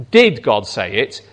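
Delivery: low, plain asking tone; genuine question. Shown as a demonstration. Preacher contrasting a real question with the serpent's surprise. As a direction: ask it straight as a real question. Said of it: "It's not so much that he's asking".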